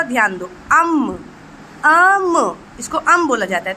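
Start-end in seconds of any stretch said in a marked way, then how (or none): 0.7-1.1 अम with a short vowel closing into a hummed म; half-sounded अम. Shown as a demonstration. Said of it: "आ का उच्चार होता है आधा". 1.8-2.6 अम drawn out, higher, closing on म; half-sounded अम. Shown as a demonstration. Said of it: "आ का उच्चार होता है आधा".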